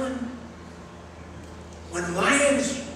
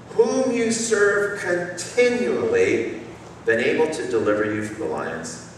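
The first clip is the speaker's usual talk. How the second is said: lamenting. Acted. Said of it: "with a lamenting voice".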